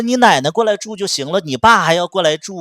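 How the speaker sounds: loud, high furious scolding; angry outburst. Retold or imitated. To her ex about his father, furious shouting. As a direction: yell it at him, fed up. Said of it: "我就发火了".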